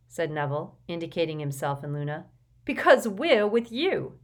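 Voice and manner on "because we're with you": Neville's voice. A narrator's reading. Neville, nervous in the corridor.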